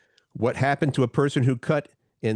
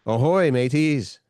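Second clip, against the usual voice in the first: pirate voice; 4 dB louder, slower than usual. Pretend. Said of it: "let's hear you talk like a pirate".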